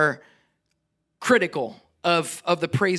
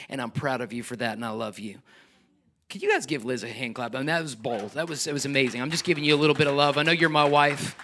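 tender to wife; 5 semitones lower, faster than usual. Real, not acted. Husband praising wife tenderly.

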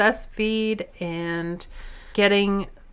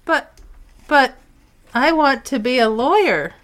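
whiny pleading; 5 semitones higher, 4 dB louder than usual. Acted. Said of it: "a dramatic reenactment".

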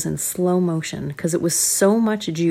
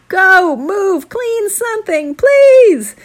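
urgent parent; 14 semitones higher, 8 dB louder, much slower than usual. Acted. Parents urging stuck kids.

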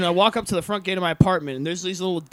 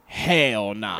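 dude's quote; 10 semitones lower than usual. Retold or imitated. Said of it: "the dude was like".

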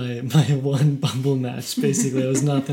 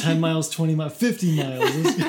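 laughing; 3 semitones higher, 4 dB louder, faster than usual. Retold or imitated. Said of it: "laughing reckless bravado".

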